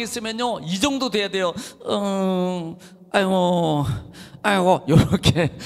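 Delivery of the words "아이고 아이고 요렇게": mock groaning. Shown as a demonstration. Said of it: "요렇게, 요렇게 있어야 된다니까요".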